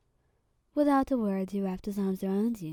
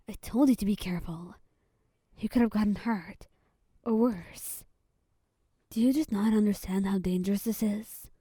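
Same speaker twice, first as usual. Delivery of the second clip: mild yell. Acted. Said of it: "he yelled out".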